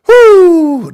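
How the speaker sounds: high, loud venting whoop. Real, not acted. Angry streamer venting between shoutouts, loud whoop. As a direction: let out a mad whoo. After saying I'm so mad.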